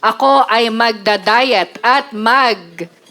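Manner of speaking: measured, solemn recital; spoken-word parody; mock high poetry. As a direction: recite it like a vow in verse. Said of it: "offer you high poetry".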